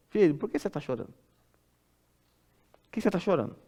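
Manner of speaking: pergunta de pai em voz baixa; repreensão suave. Acted. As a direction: pergunte baixinho ao filho, em leve repreensão. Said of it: "soa como uma repreensão suave". (repreensão suave, em voz baixa)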